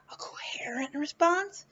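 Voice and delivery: whispered aside. Real, not acted. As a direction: whisper it to yourself. Aside about needing coherent response.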